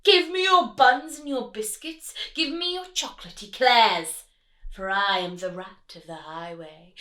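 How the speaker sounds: thundering rat. Acted. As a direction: thunder the demand. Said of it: "who thundered".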